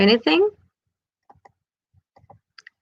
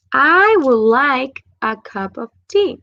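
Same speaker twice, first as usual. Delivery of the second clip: slow model sentence; 3 semitones higher, slower than usual. Shown as a demonstration. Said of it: "teacher models example sentence".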